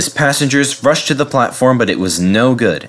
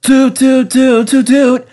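high, loud hooting cheer; cheering bus; 12 semitones higher, 5 dB louder, slower than usual. A narrator's reading. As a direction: whoop with delight at the sight. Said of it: "he cheered".

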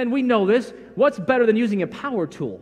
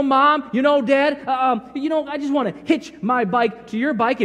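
higher, pleading congregant voice; whiny plea to pastor; 4 semitones higher than usual. Pretend. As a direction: beg the pastor to do the work.

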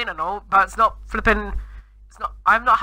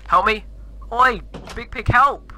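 calling for help; 5 semitones higher, slower than usual. Real, not acted. Locked in by the clown, calling out to Big Pig for help, rising to a real shout. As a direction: yell across to him for help.

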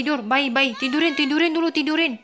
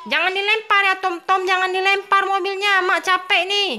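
scolding mother; 5 semitones higher than usual. Acted. Mother scolds child in game.

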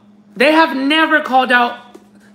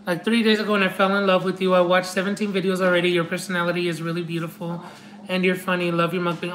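quick, low, soft read-aloud; reading a note; 4 semitones lower, 7 dB quieter, much faster than usual. Real, not acted. Reading a fan's note aloud, quick and low. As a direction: read it fast and low, almost to yourself.

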